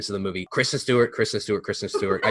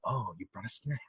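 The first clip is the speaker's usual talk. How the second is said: vampire quote; 2 semitones lower, 13 dB quieter than usual. Retold or imitated. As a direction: murmur it like a bored vampire. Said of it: "vampires shows up and like".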